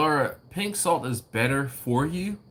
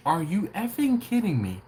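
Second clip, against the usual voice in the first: retold outrage; 8 semitones higher than usual. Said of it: "I proceeded to curse her out".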